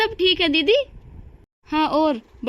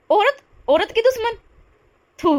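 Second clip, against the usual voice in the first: high, scornful cry of contempt; disgusted outburst; 7 semitones higher than usual. Acted. Bahu scorns her cruel mother-in-law, disgusted high outburst. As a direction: spit the words out in disgust.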